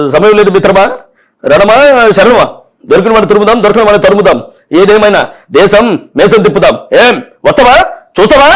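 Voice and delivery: lightly voiced punch-dialogue hero; a hint of a film hero's challenge, rising to a mild mock dare; aggressive Balakrishna dialogue. Mimic throwing a movie punch line at the enemy, mildly aggressive. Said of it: "aggressive".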